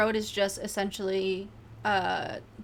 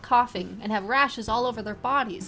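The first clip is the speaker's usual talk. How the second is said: angry resident; 4 dB louder than usual. Acted. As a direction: rant about the poisoned river. Angry resident voiced in interview.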